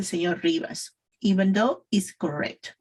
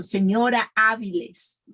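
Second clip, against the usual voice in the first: measured model for repetition; pronunciation practice. Shown as a demonstration. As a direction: say each word distinctly for learners. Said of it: "practice with me, please".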